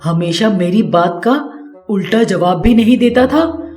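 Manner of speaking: mother-in-law threatening her daughter-in-law while hitting her, furious. Acted. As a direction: spit out the threat in a jealous fury. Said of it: "Radha को मारते हुए कहती है".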